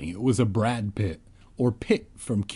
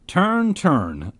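put-on husky girl voice; 8 semitones higher, 3 dB louder than usual. A narrator's reading. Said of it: "said in a husky voice".

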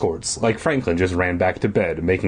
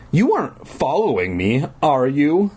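teasing; 6 semitones higher than usual. Acted. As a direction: tease with a rising, lilting tune. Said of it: "The first counselor teased".

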